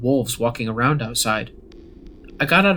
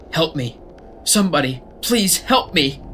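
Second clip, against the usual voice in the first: screamed plea; 5 semitones higher than usual. A narrator's reading. Young woman screaming for help in the distance, pitched-up desperate cry. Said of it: "we heard a scream in the distance".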